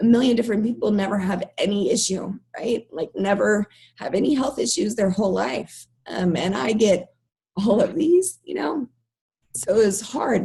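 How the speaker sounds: emotional, moved, voice welling up, fighting back emotion. Speaking openly about their frustration with their own body, getting emotional. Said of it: "I'm getting emotional".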